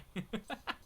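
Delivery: soft laugh at oneself; embarrassed laugh. Real, not acted. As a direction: laugh off your own bad accent. Laughs at own accent attempt.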